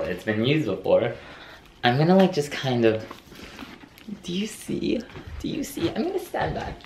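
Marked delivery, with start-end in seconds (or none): 4.2-6.9 excited. Real, not acted. Showing bag to camera, excited.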